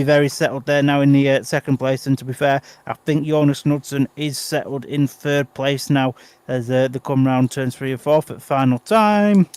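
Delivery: calmer race commentary to the flag; live play-by-play. Acted. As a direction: call the closing laps live. Race call continues to finish.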